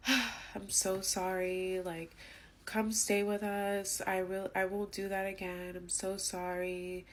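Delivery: slow, soft, emotionless sorry; lightly voiced hollow apology, slow and soft; imitating C's flat apology; mock apology.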